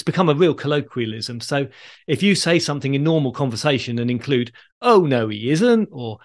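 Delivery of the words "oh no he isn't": slow, lilting stage denial; pantomime catchphrase. Shown as a demonstration. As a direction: draw out a playful panto contradiction. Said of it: "you're referring to Christmas pantomime".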